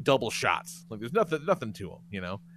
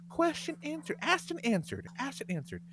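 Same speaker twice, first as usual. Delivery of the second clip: mocking mom advice; 10 semitones higher, 8 dB quieter than usual. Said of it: "you say".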